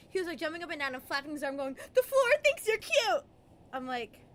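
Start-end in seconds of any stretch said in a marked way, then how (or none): 1.9-3.2 excited yell. Retold or imitated. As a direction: bounce and shout it at the kid. Dad flapping and shouting.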